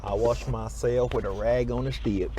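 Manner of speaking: put-on Southern accent. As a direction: lay the Southern American accent on slowly and clearly. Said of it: "I do like the Southern accent".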